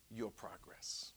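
your progress in a soft unvoiced whisper. Preacher whispering your progress to the church. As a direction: breathe it gently to them.

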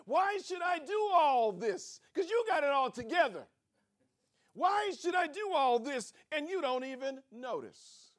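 a hint of a put-upon partner; resentful complaint. Partner grumbling about being unnoticed, mildly sulky.

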